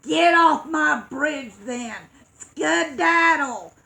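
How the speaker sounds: loud troll shout, slowing on the last word. Acted. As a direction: shoo the goat away with a troll's bellow. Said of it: "So he shouted".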